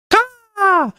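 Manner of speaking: high, piercing bird screech; mock eagle cry; eagle caw. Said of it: "make that caw sound".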